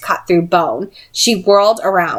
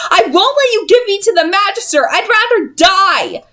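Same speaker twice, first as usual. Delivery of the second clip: defiant; 14 semitones higher than usual. Acted. Tessa defying the sisters.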